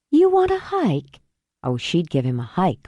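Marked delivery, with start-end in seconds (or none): 0.1-1.2 much higher, loaded question; a mild threat behind the offer; daring challenge. Acted. Olivia challenging him.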